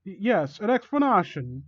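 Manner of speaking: hesitant answer, lifting in pitch; nervous. Acted. Victim answers villain on the bed, mildly nervous.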